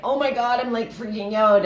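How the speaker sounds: replaying a panicked call to a friend; retold panic. Panicked voice recalled on an SOS call. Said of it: "I was like".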